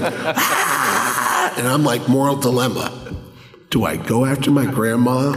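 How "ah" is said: grandmother's retold scream, slightly raised; comic "ah" with a laugh behind it; mock scream.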